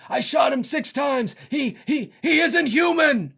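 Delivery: high, slow, stunned doctor; a lightly voiced shaken doctor, drawn out; Doctor Loomis. Loomis telling the sheriff, stunned and slow. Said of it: "Anyway, he says".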